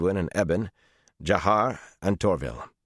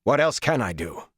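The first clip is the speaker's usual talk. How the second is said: demanding; 7 semitones higher than usual. A narrator's reading. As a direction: throw the question back at Perrin. Rand presses Perrin again.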